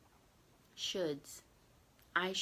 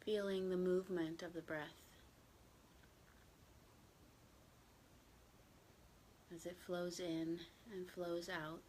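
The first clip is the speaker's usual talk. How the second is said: gentle, even meditation guidance with long silences; unhurried, settled meditation voice; guided meditation; 12 dB quieter than usual. Real, not acted. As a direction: ease listeners into stillness, slightly hushed, leaving long pauses.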